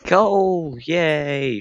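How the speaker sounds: high, loud cry of joy; excited cheer. Real, not acted. Miner cheering when he finally finds coal, high and loud. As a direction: shout at the lucky find.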